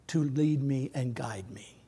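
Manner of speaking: a hushed, breathy prayer whispered to God. Acted. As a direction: pray it in a whisper, slow and intimate.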